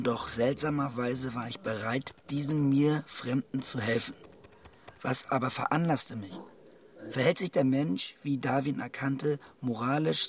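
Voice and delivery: reflective inner monologue. Acted. Inner monologue while writing blog.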